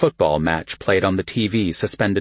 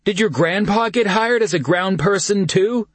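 suppressed laughter; 12 semitones higher than usual. A narrator's reading. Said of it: "barely containing his laughter".

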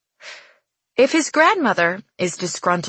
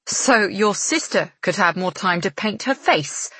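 snapping; 2 semitones higher than usual. Acted. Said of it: "she snaps".

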